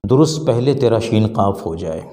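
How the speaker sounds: verse line, recited with weight. Shown as a demonstration. Teacher reciting a couplet to students. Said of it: "یہ شعر کہا".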